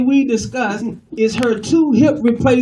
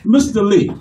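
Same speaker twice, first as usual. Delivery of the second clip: Italian-American caller's greeting; Italian-American accent. Acted. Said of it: "Italians are fun to talk to".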